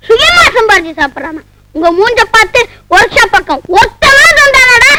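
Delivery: lively complaint with pitch jumps; scolding outburst. Acted. Hungry friend berating his mate over refused food, scolding. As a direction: gripe at him without holding back. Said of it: "டேய், கத்தாதடா".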